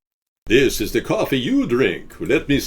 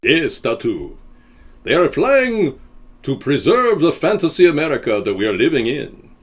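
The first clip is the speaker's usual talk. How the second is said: Ricardo Montalban; 4 semitones higher, 4 dB louder than usual. Retold or imitated. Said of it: "Ricardo Montalban".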